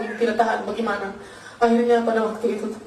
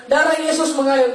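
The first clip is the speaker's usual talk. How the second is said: mildly raised, higher cry of faith; re-enacted calling out, pitched up; retold cry; 4 semitones higher, 4 dB louder than usual. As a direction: call it out as a declaration, short of shouting.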